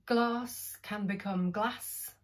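glass first with a short flat a, then glass with a long broad ah, slowly; glass said two ways, short a then long ah; vowel change demo. Shown as a demonstration. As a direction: contrast the two vowels in glass, slow and clear. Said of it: "very simply".

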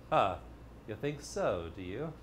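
soft, low mocking doubt; a sly inner voice fading to a murmur; sceptical tail ender. Teacher voicing the doubtful tail ender quietly. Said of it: "that little voice at the end saying".

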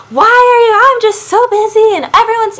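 high, loud, overwrought mock wail; mock emotional whine. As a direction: play the frazzled, weepy excuse-maker, hammed up. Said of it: "get emotional and start crying and be like".

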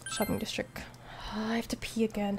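whispered aside; whispering. Real, not acted. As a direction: whisper it to yourself.

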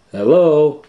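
high, loud call into the house. Acted. Shaggy calls into the empty house, high and loud.

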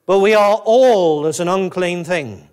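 emphatic "all", then falling away; stress on "all". Shown as a demonstration. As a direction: punch the word "all" in the verse. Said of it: "underline that little word "all".

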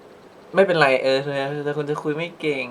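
slow, gently sulking, a touch wistful; sweet, slightly hurt. Retold or imitated. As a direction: say it sweetly, not harsh, just a little hurt. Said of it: "หวานๆ นะ พูดแบบ ... ไม่ได้ดุดัน ... น้อยใจนิดๆ".

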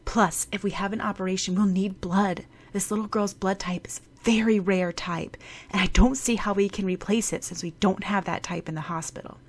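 a doctor thinking out loud about the blood; worried doctor. Acted. Doctor explaining the blood problem.

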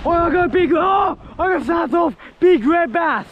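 high-pitched, urgent exclaiming; excited outburst. Real, not acted. Angler losing a big red bass on light tackle, excited. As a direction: call it out in the heat of the fight. Big fish snaps the line.

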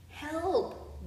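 high storybook call for help. A narrator's reading. Fishermen call to friends in another boat, calling out. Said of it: "they called to their friends".

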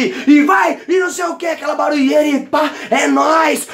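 rowdy party noise. Retold or imitated. Noisy party at the bar.

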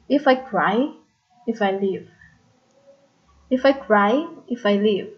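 "If I cry" with two light beats, then stressed "cry"; stress on final word. Shown as a demonstration. Teacher showing anapest example, stress on "cry" and "leave". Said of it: "the stress there is cry and leave".

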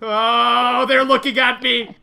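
panicking to chat; panicky alarm. Real, not acted. Panics as mobs look at him.

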